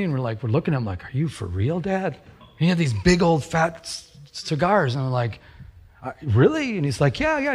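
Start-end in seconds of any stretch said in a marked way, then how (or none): 1.0-2.1 disbelieving question leaping up at the end; mock incredulous kid. Kids doubting dad's cigar offer. 6.0-6.8 higher, doubtful little question; mock incredulous kid. Kid doubting the big cigars. 7.2-7.5 high-pitched, breezy go-ahead; mock-casual dad egging the kids on; imitated eager dad.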